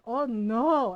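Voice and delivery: loud, horrified gasp of a reply. Retold or imitated. Aunt hears who made the gesture first, horrified. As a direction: sound appalled by the news. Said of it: "she looked horrified".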